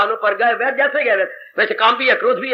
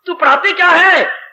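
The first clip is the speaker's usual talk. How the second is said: mock angry mother; 5 semitones higher, 3 dB louder than usual. Mother quarrels with teacher.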